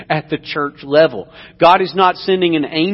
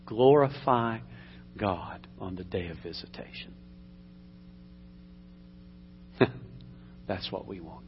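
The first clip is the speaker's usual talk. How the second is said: prayer. Acted. Leads a closing prayer.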